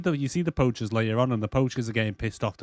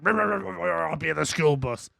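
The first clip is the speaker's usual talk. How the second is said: mock raptor chatter; 4 semitones higher than usual. Raptor voiced talking.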